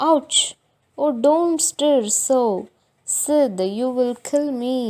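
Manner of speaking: put-on boy faking pain to his brother, loud and high; overacting. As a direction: groan it like he is dying. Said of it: "ரொம்ப over react பண்றான்".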